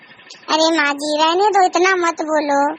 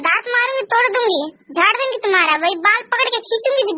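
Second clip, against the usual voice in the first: higher-pitched mock threats; 5 semitones higher than usual. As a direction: hurl threats at her. सास मारने की धमकी देती है. (मारने की धमकी)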